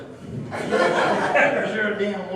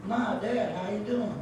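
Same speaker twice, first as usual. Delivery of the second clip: talking sock; 4 semitones higher, slower than usual. Acted. Dummy playing a sock greeting its parents, puppet voice. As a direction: pitch it up like a small puppet greeting family. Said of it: "you used to talk to a sock".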